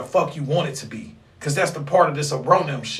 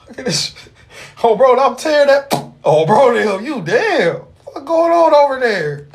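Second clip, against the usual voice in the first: much higher and louder, yelling in excitement; loud hype; 9 semitones higher, 7 dB louder than usual. Real, not acted. Streamer yelling at what a viewer is doing, wildly excited. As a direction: lose it watching the screen. Hyped reaction to live viewer.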